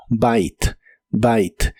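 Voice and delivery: "bite" with an "ai" vowel and silent final E; teacher's model of "bite", one syllable ending on T. Shown as a demonstration. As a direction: say "bite" as "bait" in Spanish spelling. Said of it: "La I se pronuncia como I".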